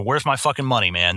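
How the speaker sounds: gruff, blunt demand for money; tough collector. Shown as a demonstration. Collector showing the rough way, blunt demand. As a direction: lean on him like a debt collector. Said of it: "that's kind of the way you're supposed to act".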